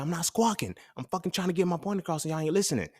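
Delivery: high-pitched imitation of pubescent protest; squawky breaking voice. Youngest kid fighting to be heard by siblings, squawky. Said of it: "my voice would break".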